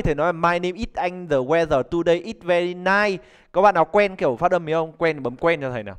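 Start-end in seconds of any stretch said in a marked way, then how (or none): 0.3-3.2 "Anh" and "nice" said with no final sounds, slowly at x0.6; old bad pronunciation. Shown as a demonstration. Teacher imitating his younger self without final consonants. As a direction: drop every ending consonant, the way a beginner reads. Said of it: "ngày xưa thầy bảo thầy không phát âm được âm đuôi".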